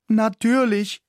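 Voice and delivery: high, loud cry of discovery; excited shout. A narrator's reading. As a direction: shout it out in delight. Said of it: "schrie ich begeistert".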